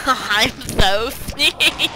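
drawn-out, slow gloating sneak; slow sneaky imp. Retold or imitated. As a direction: stretch it out like a smug little imp. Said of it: "he actually sounds like that".

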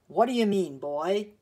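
loud, indignant challenge; indignant demand. A narrator's reading. Visitor challenging a boy who refuses him, indignant. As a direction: demand an explanation from the child.

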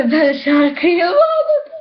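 laughing. Real, not acted. Laughs at own blunder.

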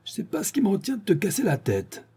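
high-pitched, threatening outburst; sudden anger. Acted. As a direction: threaten in a burst of temper. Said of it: "pris d'une soudaine colère".

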